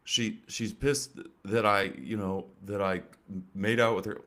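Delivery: mock a lazy stand-up doing a girlfriend bit; fake bad comic. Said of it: "I can't do a fake bad comic".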